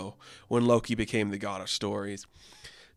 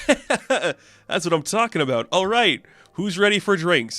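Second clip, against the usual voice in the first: rowdy cheering; 6 semitones higher, 5 dB louder than usual. Acted. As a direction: whoop it up like warriors after a win. Warriors cheering after victory.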